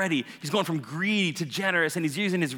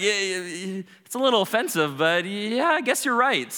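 higher, hesitant agreement; grudging concession; 4 semitones higher than usual. Acted. Levi admitting to Jesus he is right, reluctant. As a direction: give in haltingly, slightly miffed.

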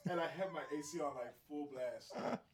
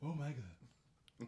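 slow drawn; 3 semitones lower, 6 dB quieter, much slower than usual. Pretend. Echoing catchphrase.

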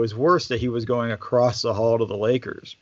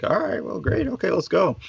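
surprised agreement; 7 semitones higher than usual. Retold or imitated. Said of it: "I'm like".

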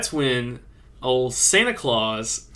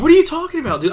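very high, loud disbelief; can't see what he means; incredulous; 7 dB louder, faster than usual. Retold or imitated. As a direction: hunter behind a tree, loud and incredulous. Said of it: "I'm like".

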